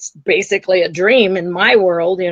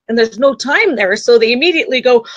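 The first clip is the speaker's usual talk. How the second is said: usual speaking voice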